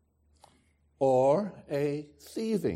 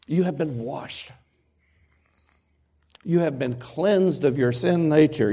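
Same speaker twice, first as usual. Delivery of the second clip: louder, stronger reading of the verse; speaking up; 4 semitones higher, 7 dB louder than usual. Real, not acted. Preacher speaking up after a listener raises his hand. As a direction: project it to the back row. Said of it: "I'll try".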